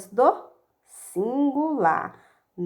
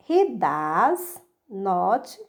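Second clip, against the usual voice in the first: slow drill; 3 semitones lower, much slower than usual. Shown as a demonstration.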